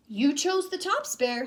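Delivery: high, cheeky sly reply; sly Hare. Acted. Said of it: "Hare said".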